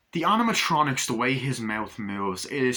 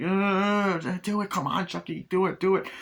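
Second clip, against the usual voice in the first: high, pressed mock panic; frantic urging; 7 semitones higher than usual. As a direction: egg him on urgently, pitched up. Stan urges Chucky, panicked.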